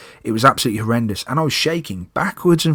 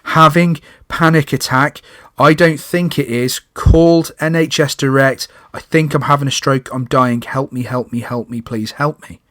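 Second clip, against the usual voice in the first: forced calm; 3 semitones higher than usual. Retold or imitated. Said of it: "forced myself to calm down and go".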